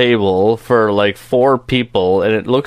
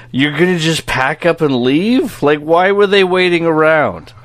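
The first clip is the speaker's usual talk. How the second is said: high, loud objection easing as it goes; hammed-up exasperated outburst; mock incredulous protest; 6 semitones higher, 4 dB louder than usual. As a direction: call a sudden halt, then argue in disbelief. Acted objection to sudden departure.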